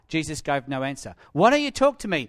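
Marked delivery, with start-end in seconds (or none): 1.3-2.3 louder, higher exasperated demand; acted angry interrogation; Pilate demanding. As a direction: demand that the prisoner speak. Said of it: "Pilate demanded".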